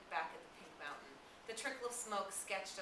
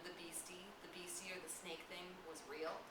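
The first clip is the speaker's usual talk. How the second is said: hushed unease; 7 dB quieter than usual. Acted. Simon naming the feared thing.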